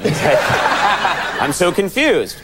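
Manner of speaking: very slow, odd, drawn-out line; a hint of Christopher Walken, stretched out; mock Walken. Host mimics Walken's odd delivery.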